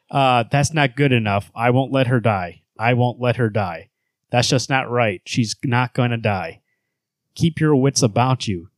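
slow, grave narration with heavy repeats; dramatic comic reading. Acted. Host reading a comic's narration to co-hosts, dramatic and slow. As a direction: read the panel like a tense audiobook.

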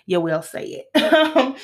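slow, deliberate "you will say it"; firm insistence. Real, not acted. Telling people to say her name right, slow and firm. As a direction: lay down the law, word by word.

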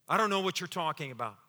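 quick, played-down brush-off; understated denial. Bold Peter denying Jesus, understated brush-off. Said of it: "Remember, this is bold, brash Peter".

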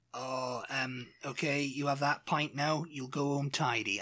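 put-on a light Bristol accent, like an old regular at the pub; a gentle Bristol accent, quietly imitating an old man at the pub. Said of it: "doing it in a Bristol accent".

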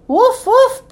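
two high, quick woofs; dog bark. A narrator's reading. Ebb arriving at Seal Island, barking. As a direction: bark twice like a small dog. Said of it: "barked Ebb".

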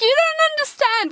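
high, whiny "you don't get it"; exasperated protest. Retold or imitated. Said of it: "I'm like".

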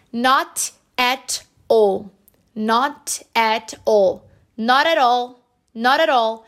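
"not at all" as "nó-ra-rall"; flapped Ts. Shown as a demonstration. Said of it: "os dois T's com esse som de R". ("not at all" com os dois T soando como R)

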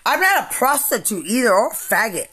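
angry shouting. Real, not acted. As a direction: lash out at them, loud and bitter. Real furious rant at accusers.

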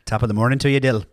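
"Top of the morning to you" in a light stage Irish lilt; paying off the bet with a hammed-up Irish greeting; mock Irish accent. Paying off the bet, he greets Dill in a light mock Irish accent. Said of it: "we are doing Irish".

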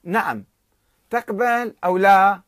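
slow, loud, stern ultimatum; curt and severe, taking it slowly. Retold or imitated. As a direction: lay down the final demand firmly. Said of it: "فأجابه النخجواني بصرامة".

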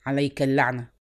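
low, contained angry curse; shouted curse. A narrator's reading. Sheikh cursing the drunk, restrained angry cry. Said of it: "فصاح به".

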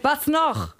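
interrogating shout; chef yelling. A narrator's reading. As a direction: snap the question.

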